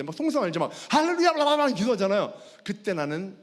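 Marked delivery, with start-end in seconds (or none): 0.9-1.7 high, loud mock prayer babble; loud group prayer. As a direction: imitate fervent believers praying out loud. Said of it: "통성으로 기도한대".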